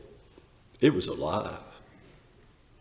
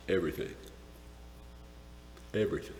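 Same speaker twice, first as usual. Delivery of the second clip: hushed awe; 3 semitones lower, 14 dB quieter, much faster than usual. Acted. Awed fading repetition.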